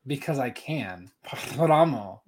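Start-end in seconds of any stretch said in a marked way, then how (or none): 1.3-2.2 Paramo with a rolled, trilled R. Acted. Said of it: "you rolled your tongue and then said Thramo".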